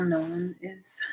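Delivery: unvoiced soft whisper; whispered aside. Real, not acted. Vlogger whispering that no one is here. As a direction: breathe it out.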